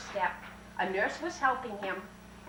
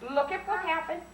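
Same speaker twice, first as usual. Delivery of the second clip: rising, eager storyteller's reveal; big wide-eyed story voice; excited reveal; 6 semitones higher, 6 dB louder than usual. A narrator's reading. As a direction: build the wonder for the kids.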